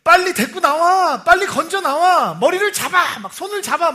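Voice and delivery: high, loud, slow yelled commands; panicked shouting. Retold or imitated. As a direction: scream instructions at the rescuers. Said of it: "제가 막 소리를 질렀어요". (물에 빠진 아이를 구하라고 다급하게 소리치는 목소리)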